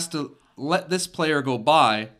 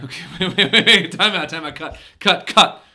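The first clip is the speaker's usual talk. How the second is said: panicked shouts; 5 semitones higher, 7 dB louder than usual. Acted. Interviewer panics, calls cut.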